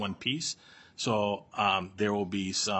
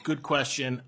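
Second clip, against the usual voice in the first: laughing; 6 semitones higher, 4 dB louder than usual. Real, not acted. Laughs repeating good question.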